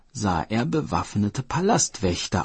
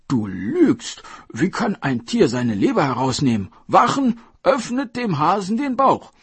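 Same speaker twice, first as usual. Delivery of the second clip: furious king ordering, much higher and louder; angry command; 11 semitones higher, 6 dB louder than usual. Acted. Dragon King ordering guards to cut the hare open, furious. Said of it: "befahl der Drachenkönig".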